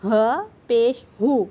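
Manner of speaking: loud ہو breathed from deep in the throat. Shown as a demonstration. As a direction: push ہو from the throat. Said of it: "انتہائی حلق میں سے یہ ادا ہونے والا". (حلق سے ہو)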